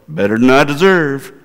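lightly imitated radio host catchphrase; half-hearted impression with a lilting swing; Dave Ramsey. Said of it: "I can't do his accent the way he is".

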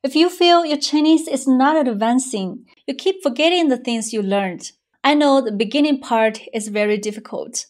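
upbeat promo pitch; ad read. Acted. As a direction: sell the course with energy. Course advertisement read.

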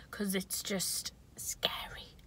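slow soft whisper. Real, not acted. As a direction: draw out a slow creepy whisper. Whispering about scary whispers.

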